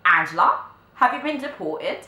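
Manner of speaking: mum's shocked shout, building to a high shriek; imitated screaming. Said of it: "so she was screaming, she was shouting".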